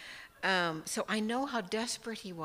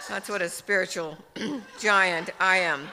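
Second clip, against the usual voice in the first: laughing; 9 dB louder than usual. Real, not acted. Self-mocking remark.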